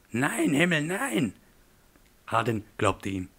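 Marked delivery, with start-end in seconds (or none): 0.1-1.3 much higher, frantic protest; panicked denial. Acted. Terrified man denies having a gun to his attacker, panicked high cry. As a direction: deny it in a rush of panic.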